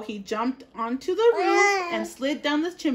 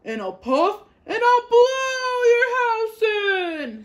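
loud, growly-big wolf threat; wolf threatening the pig, loud and menacing; 10 semitones higher, 8 dB louder than usual. A narrator's reading. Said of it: "said the wolf".

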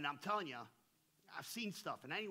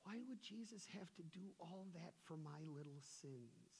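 put-on puzzled old lady; 10 dB quieter than usual. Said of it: "She goes".

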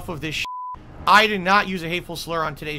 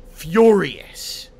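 loud furious; 7 dB louder than usual. Real, not acted. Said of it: "I am furious".

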